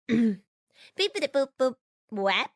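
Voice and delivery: toy robot voice. Acted. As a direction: beep like a cheap little robot. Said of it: "the most unsophisticated droid ever".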